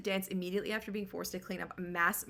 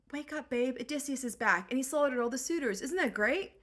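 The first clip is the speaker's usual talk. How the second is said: mock gleeful; 4 semitones higher than usual. Nanny gleefully wakes Penelope.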